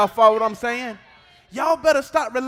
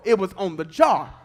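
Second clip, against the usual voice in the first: shouted emphasis; 2 semitones lower than usual. Acted. Repeats the point, now shouted.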